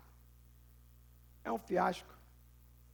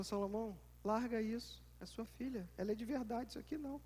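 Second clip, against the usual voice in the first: self-reminder; 10 dB quieter than usual. Retold or imitated. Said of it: "Aí ela fala e eu falo".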